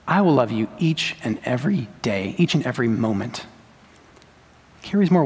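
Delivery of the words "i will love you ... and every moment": tender promise. Shown as a demonstration. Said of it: "But if I say to her".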